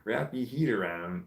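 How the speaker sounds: HEAT as "heed", AROUND left standard, lightly Scottish; attempted Scottish accent. Shown as a demonstration. Reading a chatter's phrase, halfway Scottish accent. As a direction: try Scottish "heed" for head only. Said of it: "This is a hard accent".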